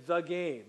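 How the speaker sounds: THE slowed and set apart before "game"; stress on THE. Shown as a demonstration. Preacher showing which game is meant, stress on THE. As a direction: lean slowly on "the" to mean that one game. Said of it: "it was that particular game".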